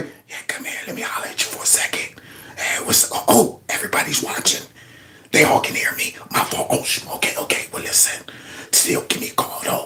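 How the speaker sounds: hushed, breathy, barely voiced whisper. Acting out the whisperer in chief trying to holler at somebody: imitating someone whispering. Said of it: "That's what he sounds like".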